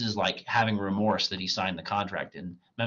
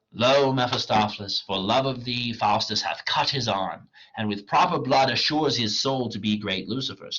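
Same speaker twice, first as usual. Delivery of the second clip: reading a scene aloud with mild character voices; dramatic play reading; 4 dB louder than usual. Acted. Teacher reading Faustus to the class, lightly acted. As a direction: read it like a stage script for class, lightly acted. Reads the blood pact scene.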